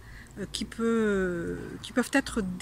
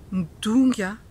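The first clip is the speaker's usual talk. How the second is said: mock sulk; 6 dB louder than usual. Shown as a demonstration. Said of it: "le fait que je boude".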